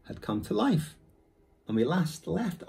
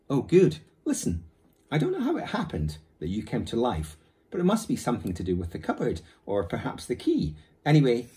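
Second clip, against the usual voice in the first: put-on higher, pleading boy's chatter; reasonable eager boy; 6 semitones higher, 3 dB louder than usual. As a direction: talk fast and reasonable to win him over. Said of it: "in a very reasonable tone".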